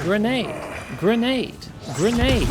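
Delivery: grenade warning yell. Real, not acted. Throwing grenades in combat.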